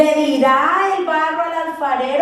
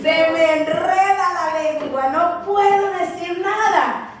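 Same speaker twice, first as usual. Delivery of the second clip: whiny excuse. Retold or imitated. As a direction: beg off like a stammering coward. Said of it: "¿qué hace Moisés?". (Moisés quejándose, suplicante)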